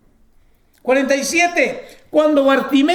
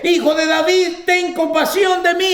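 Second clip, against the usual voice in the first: higher, louder desperate cry for mercy; 6 semitones higher than usual. Retold or imitated. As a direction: call out over the crowd, higher and louder. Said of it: "gritó aún más fuerte". (el ciego clamando a Jesús, grito agudo y fuerte)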